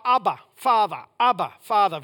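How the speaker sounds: loud fervent calling out; crying out. Retold or imitated. Jesus crying out to the Father in prayer. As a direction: call to God with longing. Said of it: "he cried out".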